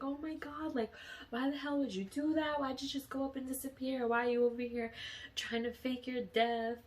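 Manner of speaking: high-pitched, disbelieving mock reproach; retold incredulity. Asking him why he faked his death, retold incredulity.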